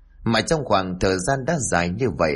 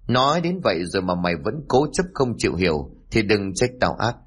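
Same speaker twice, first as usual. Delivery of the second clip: mild scolding bark; 2 semitones higher than usual. Acted. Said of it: "quát".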